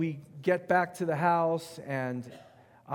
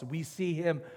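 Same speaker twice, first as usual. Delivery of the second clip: building preaching; 5 semitones higher, 6 dB louder than usual. Real, not acted.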